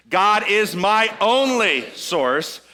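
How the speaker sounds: "only" stretched and punched, slow line; stress on only. Shown as a demonstration. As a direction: hit the word "only" and draw it out. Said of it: "emphasize a different word".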